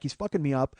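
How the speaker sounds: usual speaking voice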